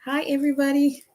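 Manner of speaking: bright greeting. Real, not acted. Excited greeting to viewers.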